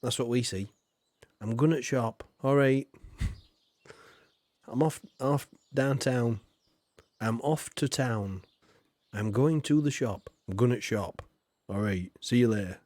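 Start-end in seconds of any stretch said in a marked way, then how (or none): 1.4-12.8 Yorkshire voice. Retold or imitated. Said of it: "we do the same thing in Yorkshire".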